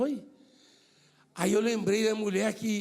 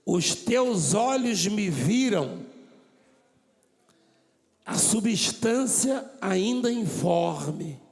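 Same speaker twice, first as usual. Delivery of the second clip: slow recitation; much slower than usual. Acted. Preacher reads Davi's psalm to the church slowly. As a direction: savour each word.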